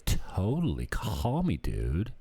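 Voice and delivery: put-on a light valley girl lilt. Agreeing to a new buddy at the bar, mock valley girl. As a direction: toss it off like a chatty valley girl. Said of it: "I'm talking like a valley girl".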